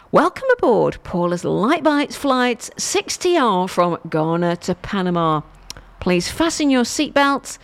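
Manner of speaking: nasal airline pilot announcement. Acted. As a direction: talk down your nose like a pilot. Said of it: "That's obviously my pilot voice".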